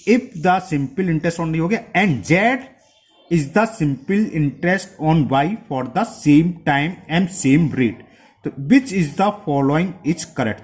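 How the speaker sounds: slow, measured reading aloud; question read-out. Acted. Teacher reading an exam question to students, slow read-out. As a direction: read it out word by word, slowly.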